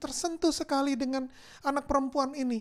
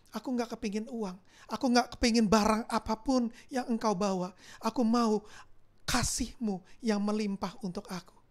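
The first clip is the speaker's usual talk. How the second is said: fading into sobs; 3 semitones lower than usual. Acted. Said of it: "Dia peluk erat sambil menangis".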